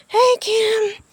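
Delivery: high, bright hello; cheery greeting. Real, not acted. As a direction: wave hello to her. Greeting a vlogger.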